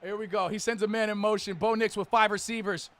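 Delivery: lively TV game commentary; play-by-play. Acted. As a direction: sell the big throw like a broadcaster.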